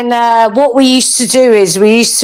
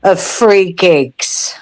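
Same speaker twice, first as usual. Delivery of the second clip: tipsy; 3 semitones lower than usual. Real, not acted. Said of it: "Sorry, I'm a little bit tipsy".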